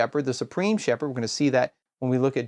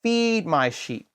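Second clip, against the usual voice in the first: slow solemn quote; slower than usual. Retold or imitated. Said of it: "what does Jesus say?".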